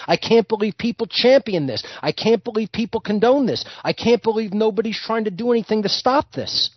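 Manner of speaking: mildly outraged litany, pitch climbing; acted indignation. Slave protesting his condition to a fellow slave, acted indignation. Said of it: "one of the slaves is constantly angry".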